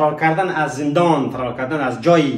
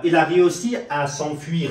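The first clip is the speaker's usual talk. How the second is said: model sentence; much slower than usual. Shown as a demonstration. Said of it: "سعی کنید".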